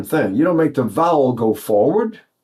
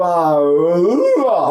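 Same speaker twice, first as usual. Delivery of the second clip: wrong vowel demo; much slower than usual. Shown as a demonstration. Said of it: "So you're gonna go".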